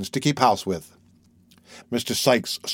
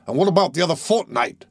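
demanding; 5 semitones higher than usual. Acted. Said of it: "demanded Sikes".

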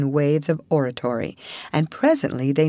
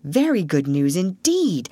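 lightly doubtful tone; dubious rat. Acted. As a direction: sound not quite convinced. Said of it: "observed the rat dubiously".

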